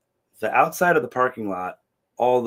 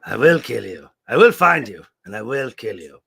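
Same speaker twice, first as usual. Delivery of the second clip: Liam Neeson; 4 dB louder than usual. Retold or imitated. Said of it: "what does Liam Neeson say".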